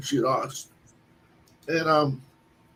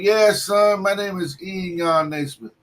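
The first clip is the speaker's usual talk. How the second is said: put-on a proud old-timer revealing who he is; old man voice; 4 semitones higher than usual. Naismith telling the cook about his grandfather, mock old-man voice. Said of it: "He goes".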